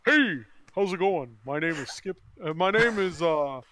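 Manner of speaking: oozing salesman charm; smarmy salesman voice. Acted. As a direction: sounds like a pool salesman. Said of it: "you sound like a pool salesman".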